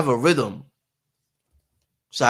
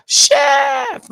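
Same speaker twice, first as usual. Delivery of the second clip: shout; 11 semitones higher, 5 dB louder than usual. Retold or imitated. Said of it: "they be like".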